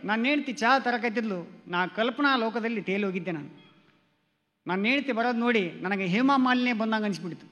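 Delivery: normal talking voice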